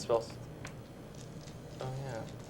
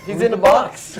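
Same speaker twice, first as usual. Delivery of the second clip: laughing; 8 semitones higher, 7 dB louder, slower than usual. Real, not acted. Laughing at lightning joke.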